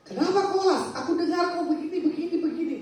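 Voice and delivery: mildly imitated startled spiritual mother; startled questioning. Spiritual mother hearing the news, lightly imitated surprise. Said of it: "Mama rohani saya kaget".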